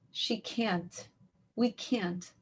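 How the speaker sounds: small, soft, resigned reply; downcast child, retold. Little girl explains to the woman, softly resigned. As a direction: let it drop quietly.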